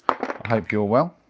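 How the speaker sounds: a slow, mock-posh greeting. Greeting Sue in the chat, slow and mock-posh. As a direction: lay on a light upper-class lilt, slowly. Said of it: "That sounds posh now".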